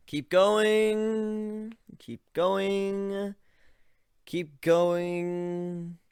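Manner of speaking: urging him to keep backing away; calling out. Acted. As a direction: wave him further back. Calling out distance to Ivan.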